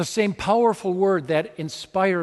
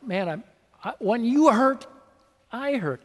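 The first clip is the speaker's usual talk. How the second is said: gently voiced Jesus, a touch higher; tender Jesus; 6 semitones higher than usual. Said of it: "Isn't this tender?".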